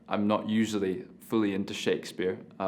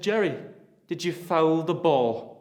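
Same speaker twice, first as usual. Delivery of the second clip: a raised mock-accusing father's question; imitating his father; 10 semitones higher, 9 dB louder, slower than usual. Son mimicking his father's question, mock angry. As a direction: throw the father's question back at him. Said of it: "and you said".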